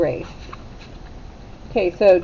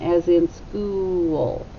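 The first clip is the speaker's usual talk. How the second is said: slow; much slower than usual. Shown as a demonstration. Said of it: "The oo sound".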